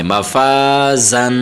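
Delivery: مفازن very slowly, the ز pressed hard; firm za. Shown as a demonstration. Teacher shows students a forceful ز in مفازن. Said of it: "سختی کے ساتھ".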